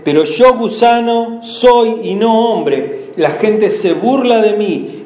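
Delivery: slow, weighty reread of the lament; rereading the psalm. Shown as a demonstration. Pastor taking the church back to the cross, slow solemn reading. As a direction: dwell on each word of the lament. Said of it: "Quiero que vuelvan a la cruz".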